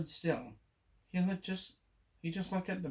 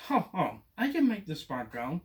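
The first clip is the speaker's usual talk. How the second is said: laughing; 4 dB louder than usual. Acted. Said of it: "But the cat laughed".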